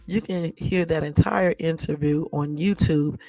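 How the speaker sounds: talking while chewing gum; words round a wad of gum. Real, not acted. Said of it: "let me take this gum out of my mouth".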